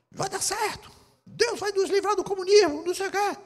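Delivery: high mocking voice of his old self; mock naive believer. Pastor mocks his former political self, high and mocking. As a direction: parody the starry-eyed optimist, high. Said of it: "Eu tava no outro extremo".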